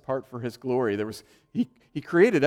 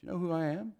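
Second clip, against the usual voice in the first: mock prideful boast, pitched up; 7 semitones higher, faster than usual. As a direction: ham up the puffed-up pride. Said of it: "our pride wells up".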